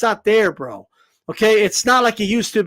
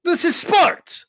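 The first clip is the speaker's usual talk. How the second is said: slow, drawn-out mock excuse; lightly imitating a quitting fighter; mocking Vitaly; 7 semitones higher, slower than usual. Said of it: "You know, like, Vitaly".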